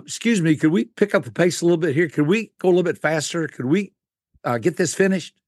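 fast, rushed plea to speed up; impatient hurry-up. Retold or imitated. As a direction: rattle it off, itching to move on. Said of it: "you said".

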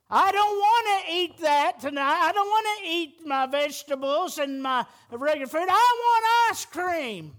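put-on a child whining, rising to a high loud demand for ice cream; whiny child. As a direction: play the kid refusing vegetables, pushing up to a loud plea. Child voiced refusing dinner.

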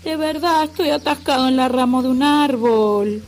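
high, earnest plea; Wilbur's pleading voice. A narrator's reading. Wilbur insists to Elmer he is stuck, pitched high. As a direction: insist from up in the tree.

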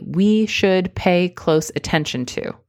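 firm, confident statement; strongly. Shown as a demonstration. Coach insisting on the confident version. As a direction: say it like you mean it. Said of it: "No, say it strongly".

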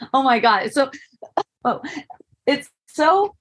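bursting with excitement, voice jumping up; tripping over words from delight; giddy rush; so excited. Real, not acted. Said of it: "I got so excited".

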